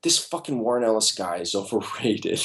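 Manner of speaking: frustrated, dismissive outburst with a laugh; exasperated rant. Retold or imitated. Artist blowing up over the script, exasperated. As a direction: vent it, fed up. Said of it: "I was like".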